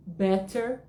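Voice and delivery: better with a crisp t and a final r; better with a clear t. Shown as a demonstration. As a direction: say better with a full t sound. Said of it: "Quatro opções pra você escolher". (better com T marcado e R no final, "béter")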